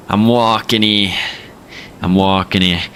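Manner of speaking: put-on New York accent on "walking". Streamer mimicking a New York pedestrian, New York accent. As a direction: lean into the New York vowels. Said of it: "Time for the New York accent".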